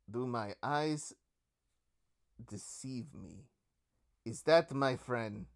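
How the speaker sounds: slow, laid-back greeting in character; unhurried, easygoing character voice; lightly voiced chill guy. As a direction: take it slowly, a touch of the chilled-out old friend. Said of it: "the chillest guy in Neo Havana".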